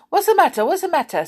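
put-on old man startled from sleep. A narrator's reading. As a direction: jolt awake and blurt it high.

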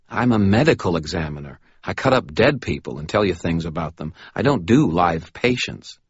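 a lightly voiced, fretful little man; protest, a bit flustered; nervous Butters.

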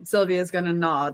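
soft unvoiced whisper. Real, not acted. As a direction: whisper it so no one hears. Whispering back.

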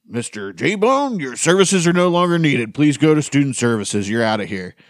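stern teacher dismissal. Retold or imitated. Teacher ordering J-Bone out of class, mock stern. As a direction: imitate a pompous teacher throwing a student out.

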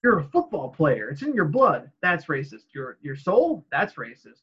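lightly voiced back-and-forth quote; acted sitcom exchange. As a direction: pitch jumps between question and retort.

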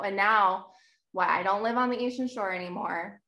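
usual speaking voice

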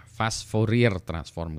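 Fourier pronounced as written, "fo-ri-er"; read as spelt. Shown as a demonstration. Lecturer showing how he misread a term, Fourier read as spelt. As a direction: say Fourier letter by letter with a sounded final r. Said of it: "kalau saya baca fast Fourier".

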